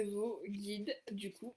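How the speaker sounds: tired voice running out; voice giving out. Real, not acted. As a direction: voice fading, nearly gone. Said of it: "Ah, j'ai plus de voix". (voix qui lâche)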